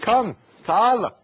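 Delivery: high, beckoning hawker's call; imitating a sock seller drumming up trade; street vendor's cry. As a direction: hail passing customers from a market pitch. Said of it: "he cries out".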